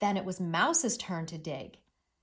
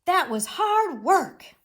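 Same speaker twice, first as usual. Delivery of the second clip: slow, louder and higher, worn out; tired; 8 semitones higher, 8 dB louder than usual. Shown as a demonstration. Teacher acts tired Mole after digging, worn out. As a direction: drag it like he's exhausted. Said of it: "He's tired, right?".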